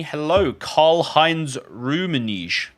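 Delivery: drawn-out name in a mock German accent; put-on German accent. Greeting a viewer from Germany, put-on German accent. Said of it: "put, like, an accent on".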